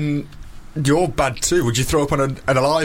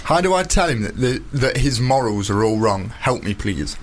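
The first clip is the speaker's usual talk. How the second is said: reading aloud in a Nottingham accent. Real, not acted. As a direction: read the letter in broad Nottingham. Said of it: "in his very sexy Nottingham accent".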